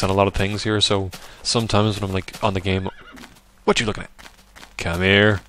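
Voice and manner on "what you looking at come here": loud, frustrated shouting at an animal; angry yelling. Real, not acted. The speaker yelling angrily at an animal that won't cooperate. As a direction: snap at it in full frustration. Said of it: "Angry Neff is angry".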